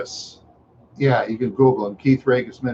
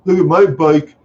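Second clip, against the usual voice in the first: Chad; 4 semitones higher than usual. Retold or imitated. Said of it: "He says".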